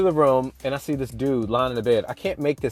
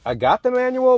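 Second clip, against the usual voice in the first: a jump up in pitch, baffled; pitched up in disbelief; incredulous high protest; 11 semitones higher, 4 dB louder than usual. Retold or imitated. To the hidden voice, baffled and pitched up.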